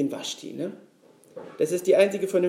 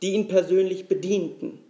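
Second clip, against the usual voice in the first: fireside storyteller. Acted. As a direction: spin it like an old fairy tale. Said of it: "die Stimme eines Märchenerzählers anzunehmen".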